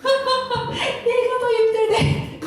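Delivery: high, very slow, stretched-out disbelief; incredulous mock repeat. Real, not acted. Speaker mocks the whiny boyfriend, high and drawn out in disbelief. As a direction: drawl it out in amused disbelief.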